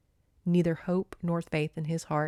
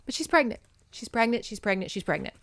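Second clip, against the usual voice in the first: fading disbelief; 3 semitones higher, 3 dB quieter, faster than usual. Real, not acted. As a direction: let the shock drain out each time. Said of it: "I'm freaking out".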